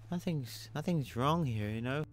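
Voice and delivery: high, fading mock-calm insistence; mock-cheerful denial trailing off; sarcastic reassurance. Real, not acted. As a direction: pretend all is fine while it is not. Ironic denial while oxygen drains.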